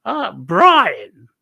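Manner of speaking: high, loud falsetto mother; Brian's mum voice. Retold or imitated. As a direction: announce the name proudly like a mum in drag.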